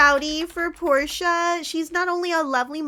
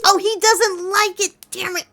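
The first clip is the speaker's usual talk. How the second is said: loud, high-pitched exasperated outburst; frustrated; 6 semitones higher, 8 dB louder than usual. Real, not acted. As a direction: cry out as the gift falls flat. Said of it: "I'm frustrated".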